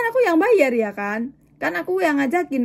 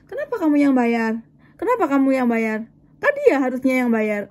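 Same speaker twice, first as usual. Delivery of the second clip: mild retold telling-off; imitated well-meant scolding. Older woman scolds her for paying, mild imitated scolding. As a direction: chide protectively, acting out someone else. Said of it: "marahnya sih bener ya, dalam kebaikan".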